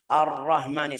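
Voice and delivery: "Ar-Rahmani" run together with a short, light h; mispronounced short ha. Shown as a demonstration. Teacher showing what to avoid, short weak ha. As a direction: pass quickly over the h in "Ar-Rahmani".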